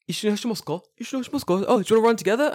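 chirpy high-pitched invitation; high mock-polite old runner; voiced old runner. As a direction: put on a high, eager inviting voice.

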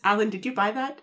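softly, imitating stunned disbelief; a small, hushed question, lightly acted; retold quiet shock. Recapping a wife shocked by her husband's purchase, very quietly. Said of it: "very quietly says".

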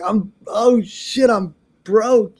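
high, drawn-out mock lament; comic despair. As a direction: act out realizing you're broke. Retells dismay at being broke.

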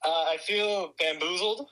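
speakerphone audio; thin voice through a phone line; over the phone. Real, not acted. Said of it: "you're on speakerphone".

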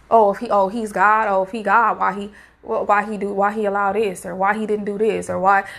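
low-pitched imitation of doubters; mocking. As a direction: mimic people mockingly questioning God. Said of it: "that's like mocking him".

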